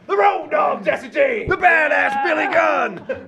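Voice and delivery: high, slow, booming ring call; announcer shout. Acted. Wrestling entrance shout.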